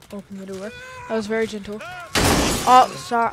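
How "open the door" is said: gently. Real, not acted.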